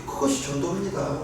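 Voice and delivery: ordinary delivery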